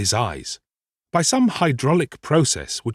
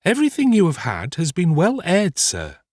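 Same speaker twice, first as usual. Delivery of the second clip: high-pitched housekeeper voice; old housekeeper; 7 semitones higher than usual. A narrator's reading. Housekeeper assures her master all was well aired, high-voiced. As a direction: speak high, dropping on the final sir.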